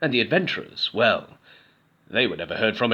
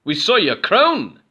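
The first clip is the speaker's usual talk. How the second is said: high, slow, loud, odd goblin chorus; many goblins in awe; 8 semitones higher, 7 dB louder, slower than usual. A narrator's reading. Goblins to Goblin, slow odd chorus. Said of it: "said the other goblins".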